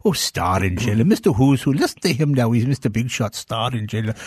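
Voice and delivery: lightly voiced disapproving mom; mother mocking. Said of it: "to placate my mother".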